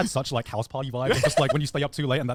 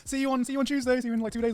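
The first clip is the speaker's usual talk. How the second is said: much higher, chirpy farewell; cheerful goodbye; 13 semitones higher than usual. Retold or imitated. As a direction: wave them off brightly. Staff saying goodbye.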